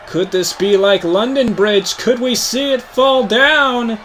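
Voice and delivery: ordinary talk, nothing marked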